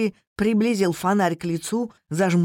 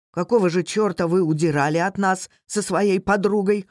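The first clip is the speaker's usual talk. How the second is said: ordinary delivery, nothing marked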